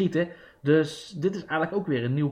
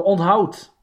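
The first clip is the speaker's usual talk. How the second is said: loud announcing; 3 semitones higher, 6 dB louder than usual. Shown as a demonstration. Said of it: "leerzame quote voor alle luisterkindjes".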